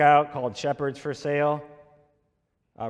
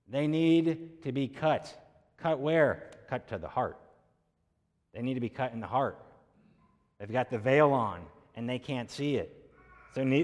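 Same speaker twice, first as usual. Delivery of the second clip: forceful preaching; 2 semitones higher than usual. Acted.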